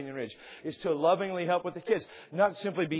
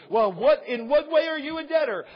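questioning listener; 8 semitones higher, 4 dB louder than usual. Acted. Imagined questioner asks Paul.

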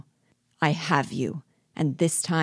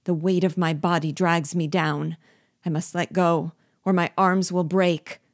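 broken with fear; 2 semitones higher, 3 dB louder than usual. Acted. Hanging dwarf begs his master for rescue, fearful. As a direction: beg for your life from the abyss. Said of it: "in a voice broken with fear".

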